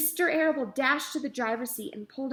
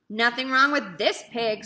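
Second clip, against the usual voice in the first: cheerful; 6 dB louder than usual. A narrator's reading. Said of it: "said Mister Zuckerman cheerfully".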